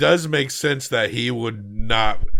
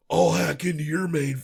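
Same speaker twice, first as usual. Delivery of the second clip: higher-pitched retold threat; mock threat; 6 semitones higher than usual. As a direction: threaten them, half in jest. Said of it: "like, he threatens them".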